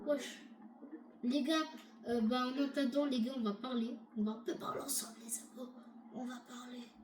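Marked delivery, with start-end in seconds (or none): 1.2-6.9 low, very soft voice; hushed chat. Real, not acted. Player waiting alone talks to viewers, hushed and low. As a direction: talk quietly, fading almost away.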